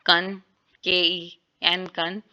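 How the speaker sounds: कन spelled out and said slowly; syllable demo. Shown as a demonstration. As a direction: sound out कन. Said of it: "ई यू के साथ represent कर रहे हैं".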